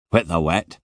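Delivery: grumpy Scottish guard, heavy brogue; broad Scottish, clearly put out; Scottish guard snapping back in a thick accent. Acted. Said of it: "with a heavy Scottish accent".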